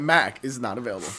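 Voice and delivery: flat recorded phone-system voice; automated voice message. Pretend. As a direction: read it like a voicemail robot. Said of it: "automated voice messaging systems".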